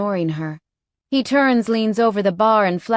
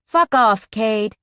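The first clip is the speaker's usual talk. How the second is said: angry retort; 3 semitones higher, 4 dB louder, slower than usual. Acted. Heroine tells biker off.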